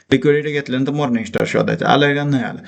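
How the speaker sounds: fast, running through the steps; hurried teaching. Real, not acted. Trading teacher racing through the chart for students, hurried. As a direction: rattle quickly through the lesson step. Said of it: "fast शिकवतोय म्हणून".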